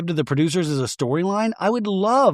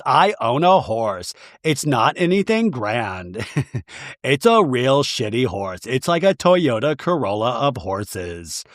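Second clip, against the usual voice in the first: a lightly lowered, unhurried Lisa voice; low Lisa impression; 4 semitones lower than usual. Recapper voicing Lisa on the boat, a lightly lowered, unhurried voice. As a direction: play Lisa breezily downplaying her horse. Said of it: "Lisa in this scene goes".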